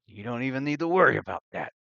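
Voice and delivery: jolly Santa-like barkeep; booming jolly laugh, then chatty. Acted. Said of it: "And he goes".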